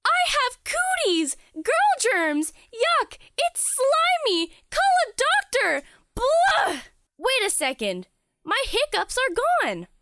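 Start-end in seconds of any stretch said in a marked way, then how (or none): 0.0-6.8 grossed out. Acted. Grossed out after the kiss.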